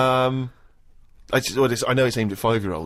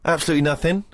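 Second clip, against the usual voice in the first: mock outrage; 7 semitones higher than usual. Real, not acted. Complaining no gift received.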